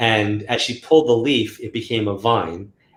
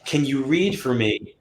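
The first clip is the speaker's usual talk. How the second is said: slow, drawn-out request with hidden meaning; loaded slow request; 3 semitones higher, 4 dB quieter than usual. Shown as a demonstration. Client's unspoken wish to the reader, slow and loaded. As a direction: stretch it out, hinting at what they really want. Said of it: "but in their mind, they're like".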